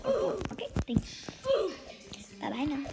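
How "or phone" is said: high whispered aside; whispered joke. Real, not acted. Joking to viewers' parents, whispered aside. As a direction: slip it in as a whisper.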